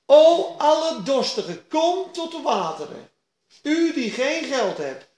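loud, slow proclaiming of scripture; preaching. Acted. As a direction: call it out from the pulpit. Proclaiming scripture at full force.

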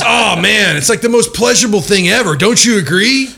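high, loud mock rapture; imitating gushing stranger. Retelling a stranger seeking agreement, high gushing imitation. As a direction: gush as if overjoyed, seeking agreement.

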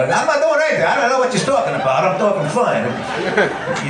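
protesting in a put-on cop voice, starting high; comedian impersonation. Boy answering his parents' complaint, still in imitated cop voice. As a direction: deny it while still doing the impression. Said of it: "you shouldn't talk like that".

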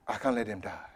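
low, hushed prayer; very soft plea. Retold or imitated. Pastor pleading his case with the Lord, very softly. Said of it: "he said very softly".

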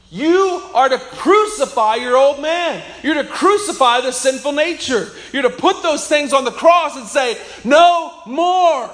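loud, high preacher's cry; fiery sermon build; preaching. Real, not acted. Preaching at full force.

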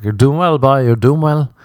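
put-on sing-song "doing well, boy"; Cork aunt voice. Showing what they say in Cork, high and gushing. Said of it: "That's what we say in Cork".

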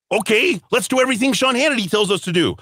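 sarcastic go-along voice; sarcastic mock obedience. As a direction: parrot blind followers with a sneer.

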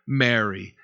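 Mary called out with emphasis; called name. Acted. Jesus calls out to Mary by name. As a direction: call her name. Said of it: "exclamation point".

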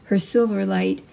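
calm, measured poetry recital; poem reading. Acted. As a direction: read it unhurried, savoring the images. Reads her poem.

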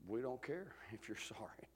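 unvoiced, dismissive whisper; cold whisper. Church ladies rejecting the pastor, in a cold whisper. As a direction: hiss it without pity.

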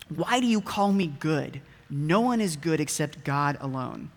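slow, deliberate challenge; retold rude rebuke. Jesus rebuffing a man who called him good, slow and pointed. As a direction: question him pointedly, taking your time. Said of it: "the way in which he's rude to him".

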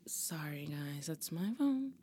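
hushed apology under her breath; real whisper. Real, not acted. Apologizing to listeners as her phone interrupts, whispered. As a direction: whisper the aside, barely voiced.

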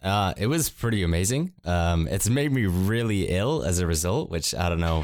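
talking with a sick voice. Real, not acted. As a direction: voice worn down by being ill. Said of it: "I've got sick voice".

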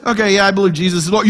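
fast, careless mock agreement; offhand. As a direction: toss it off like you barely mean it. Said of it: "You're not just".

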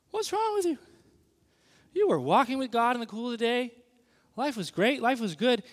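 high-pitched, incredulous telling-off; hammed-up disbelief at someone's foolishness; mock scolding. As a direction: open very high, then keep up the exasperation. Mock scolding of Adam and Eve.

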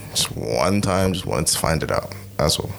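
deep voice. Pretend. Sudden very low voice.

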